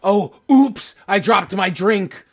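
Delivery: high, fast sing-song mockery of carelessness; mocking flippant oops. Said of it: "happens like".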